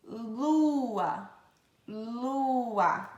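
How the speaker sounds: "Lua" with a lingering L; tongue to the palate to start "Lua". Shown as a demonstration. Teacher showing tongue position, "Lua" with a drawn-out L. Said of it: "a língua vai pro céu da boca".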